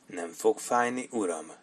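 soft, slow, soothing; calm him down, gently; reassuring. Acted. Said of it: "nyugtatta meg Sharp". (Sharp halkan, lassan nyugtatja Torrance-t)

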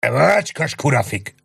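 slow, loud cursing roar; roaring curse. A narrator's reading. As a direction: spit the curse at the hussars. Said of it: "ordított a huszárokra".

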